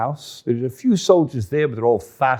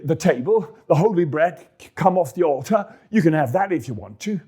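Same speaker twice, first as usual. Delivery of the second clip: fussing priest; 4 semitones higher than usual. Acted. Priest answers about bread.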